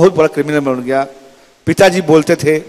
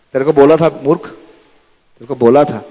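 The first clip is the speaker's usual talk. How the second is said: slow scolding. Shown as a demonstration. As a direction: drag the second बोला slowly down. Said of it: "second take slowed and dragged". (धीमी, खिंची हुई डाँट)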